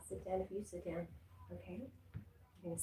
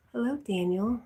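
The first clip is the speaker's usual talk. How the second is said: higher and louder hello; bright loud greeting; 5 semitones higher, 11 dB louder than usual. Real, not acted. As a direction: call out a happy hello. Greeting someone arriving, calling out.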